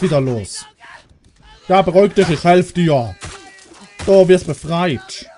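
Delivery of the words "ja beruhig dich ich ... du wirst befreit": raised, firm call to calm a panicking survivor; calling loudly to a frightened survivor in the game; loud reassurance. Real, not acted. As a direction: talk them down over the noise. Calming a screaming survivor in-game.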